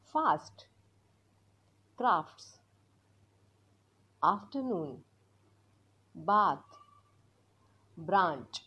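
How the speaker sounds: broad open a in फास्ट and बाथ; slow model words with a long open a. Shown as a demonstration. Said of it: "असं प्रोनाऊन्स करण्याचा". (लांब आ चा उच्चार)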